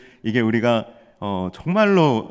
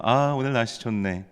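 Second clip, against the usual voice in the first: gentle, contented acted remark; softened springtime voice; 4 dB quieter than usual. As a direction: ease into it like someone enjoying the first mild day. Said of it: "사람들의 목소리도 좀 부드러워집니다".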